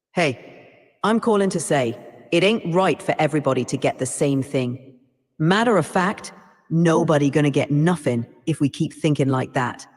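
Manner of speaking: put-on AI putting on an Ebonics accent; Ebonics-accented radio show caller. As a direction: play a caller arguing in Ebonics. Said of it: "I want you to use an Ebonics accent".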